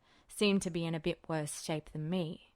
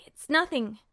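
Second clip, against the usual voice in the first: put-on higher, louder defensive young guy; young man voice; 9 semitones higher, 8 dB louder than usual. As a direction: brush it off, loud and forced casual. Ed deflects Roy's concern.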